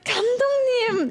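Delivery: very high, quick exasperated call; imitating own squeaky plea; retold protest. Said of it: "And I was like".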